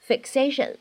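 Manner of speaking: "fixation" with an unreleased k sound; incomplete plosion. Shown as a demonstration. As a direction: hold the k in "fixation", don't let it pop. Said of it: "你会感觉这个爆破音".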